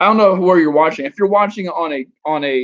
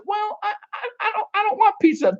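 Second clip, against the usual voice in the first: much higher, hesitant falsetto mock woman; 3 dB quieter than usual. Telling a woman he wants pizza, a high mock woman voice. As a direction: squeak out her indecision. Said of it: "She says".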